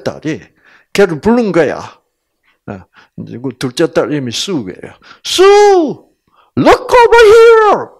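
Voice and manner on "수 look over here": high, loud call across the water; loud sibling call. Retold or imitated. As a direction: shout the little sister's name to get her to turn. Older sister calling out across the boat.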